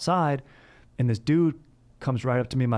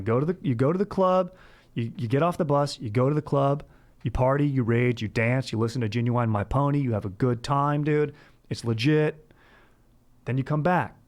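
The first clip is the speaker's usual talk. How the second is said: raised, eager bro voice giving tips; bro advice; 3 semitones higher than usual. Retold or imitated. Older student coaching freshmen on Tijuana, eager raised bro voice. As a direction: hype up the safe party plan like an older bro. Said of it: "it was like".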